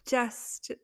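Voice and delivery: loud, slow, gushing excitement; excited. Real, not acted. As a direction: burst out with real joy. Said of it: "I'm so excited".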